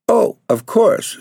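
high, slow, eager exclamation; a girl rushing to agree, pitched high. A narrator's reading. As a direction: gush it out, pitched high and drawn out. Eager girl answers the agency lady.

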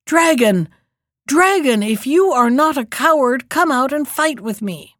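loud challenging call across the water. Acted. Prince wading in, challenging the dragon to fight, loud call.

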